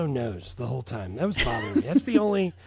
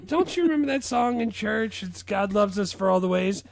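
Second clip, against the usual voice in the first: a hint of an eager mom, higher; imitating mom; 4 semitones higher than usual. Mom quizzing her son about a church song, lightly eager. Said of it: "like my mom when she's trying to tell me about some song".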